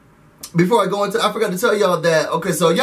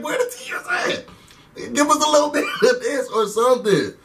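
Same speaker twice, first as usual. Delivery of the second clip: high, squeaky mock outrage; a high teasing where-are-the-tears squeal; mock disbelief; 5 semitones higher than usual. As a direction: squeal it like a diva demanding tears. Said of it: "I was just like".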